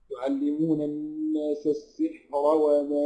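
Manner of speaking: slow chanted tajweed recitation; Quran recitation. Shown as a demonstration. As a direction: recite it slowly with drawn-out vowels. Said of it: "Quran recitation demo".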